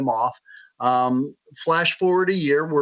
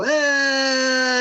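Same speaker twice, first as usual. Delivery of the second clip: unimpressed eh; 10 semitones higher than usual. Retold or imitated. Imagined reader unimpressed.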